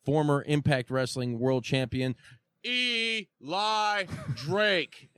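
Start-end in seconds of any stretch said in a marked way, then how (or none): 2.7-5.2 laughing. Real, not acted. Laughing name call.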